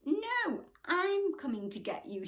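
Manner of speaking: high, loud heroic call; shout. Acted. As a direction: yell it out to save a friend. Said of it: "shouted Turtle".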